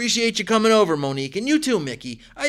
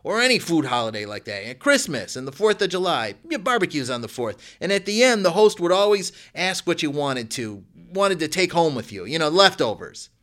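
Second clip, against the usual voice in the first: higher and louder while bustling about; called out; 5 semitones higher, 5 dB louder than usual. A narrator's reading. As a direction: call it from the kitchen while rushing around. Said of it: "Mister Christopher called".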